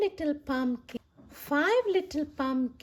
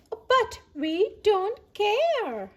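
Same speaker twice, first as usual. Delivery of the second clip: third pumpkin; 8 semitones higher, slower than usual. Acted. Third pumpkin voiced in story.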